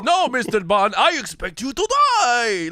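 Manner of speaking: hammed-up villain with a puppet-like lilt; mock villain, relishing every word; Count from Sesame Street. Co-host agreeing he sounds like the Count, mock villain voice. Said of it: "It's the Count from".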